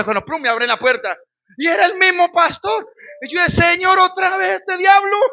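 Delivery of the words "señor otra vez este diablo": pitched-up, half-crying mock despair; exasperated groan. Retelling to the church his dread at the pastor's return, mock despairing wail. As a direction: wail it like it's the devil again.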